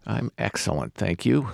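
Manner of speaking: slightly hoarse speaking voice; talking through a hoarse throat. Real, not acted. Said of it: "except for my hoarse voice".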